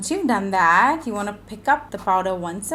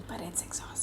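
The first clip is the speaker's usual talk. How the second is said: breathy near-silent admission; whispered confession; 3 semitones lower, 19 dB quieter, faster than usual. Real, not acted. Tired mom admits to her viewers, whispered. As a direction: let it slip out as a secret.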